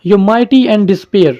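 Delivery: very slow, each word weighed like verse; slow poem recital. Shown as a demonstration. Reciting the poem's closing lines.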